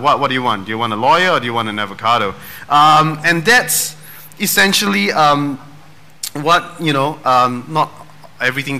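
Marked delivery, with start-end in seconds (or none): 0.0-2.3 fast, baffled shopkeeper voice; a confused clerk rattling off the question; supermarket clerk. Retold or imitated. Puzzled clerk asking a shopper what they want. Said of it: "and you go like".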